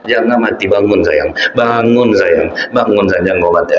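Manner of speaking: half-sung imitation of a mother wailing over her child; lightly keen the repeated bangun sayang; mock wailing lament. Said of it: "Yang dia tersiksa tuh". (ratapan ibu ditiru setengah bernyanyi)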